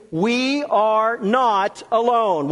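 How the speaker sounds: slow, spaced words for repeating; congregational call. Shown as a demonstration. Preacher leads congregation to say it with them, slow and deliberate. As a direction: lead them word by word, slowly. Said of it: "Say that with me".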